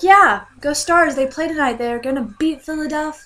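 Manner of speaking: root for the team; fan cheer. Retold or imitated. Fan cheers for the Stars, high and loud. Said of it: "I was like".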